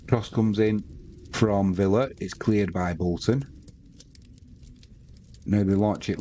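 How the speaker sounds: steady football commentary call; live play-by-play. Acted. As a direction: call the match as it unfolds.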